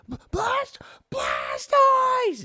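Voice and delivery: put-on very high, loud screaming kid; ecstatic kid scream. Kid finding a Blastoise card, very high loud scream. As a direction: shriek with joy over a rare card. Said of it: "starts screaming".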